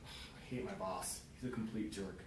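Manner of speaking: glum complaint. Acted. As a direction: drag it out like a fed-up employee. Acted complaint about a boss.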